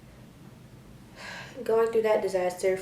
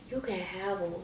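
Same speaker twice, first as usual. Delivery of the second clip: defeated mumble; 10 dB quieter than usual. Retold or imitated. Handing over phone.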